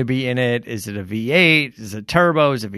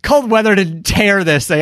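incredulous retort through laughter, higher; laughing protest; 8 semitones higher than usual. Retold or imitated. To the dealer, laughing disbelief at their excuse. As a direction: laugh while denying the weather excuse.

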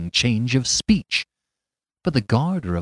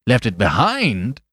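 uneasy note; 4 dB louder than usual. Acted. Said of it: "another note in his voice beside his triumph".

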